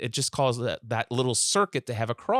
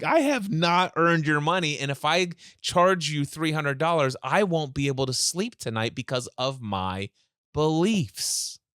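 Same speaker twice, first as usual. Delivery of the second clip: mock earnest refusal; 3 semitones higher than usual.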